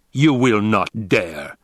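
slow grating threat; cold rasping evil emperor. A narrator's reading. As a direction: grind out the threat slowly. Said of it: "the Emperor grated".

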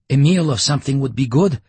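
loud declaring voice. A narrator's reading. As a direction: declare it like a hungry soldier. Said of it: "Lyocha declared".

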